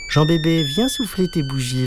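a bright-pitched call across the room; mum calling out. A narrator's reading. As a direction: call your child over to the party. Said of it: "lança la maman".

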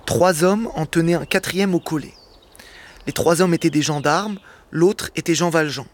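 measured, deliberate storytelling read; literary reading aloud. Acted. Guest reading a Hugo extract on air, measured narration. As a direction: read the classic novel steadily to the radio audience.

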